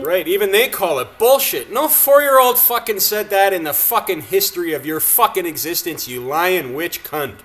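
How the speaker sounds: loud, scornful outburst; indignant rant. Real, not acted. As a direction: rail at a claim you don't believe. Angry rant at a politician's claim.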